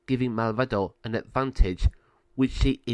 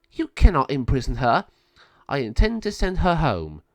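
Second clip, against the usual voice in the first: cross; 4 semitones higher, 6 dB louder than usual. Acted. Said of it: "Sabio became very cross and said".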